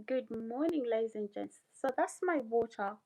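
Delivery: ordinary talk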